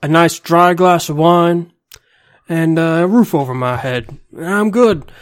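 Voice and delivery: mock Stone Cold Steve Austin Texas accent; Southern accent. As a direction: lay on a thick Texas accent. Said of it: "You sound Southern, like, really Southern".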